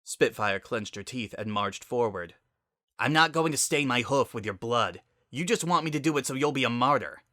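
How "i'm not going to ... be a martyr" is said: angry. Acted. Spitfire confronts Sunset angrily.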